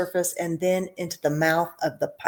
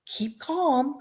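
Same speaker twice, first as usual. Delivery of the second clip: raised call; 8 semitones higher, 4 dB quieter than usual. A narrator's reading. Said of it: "cried Mister Wonka".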